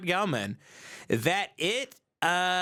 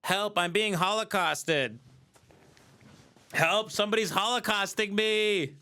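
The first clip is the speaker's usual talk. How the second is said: half-hearted pretend distress call; mock cry for help; 3 semitones higher than usual. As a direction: call for help, obviously faking. Mock victim calling for help.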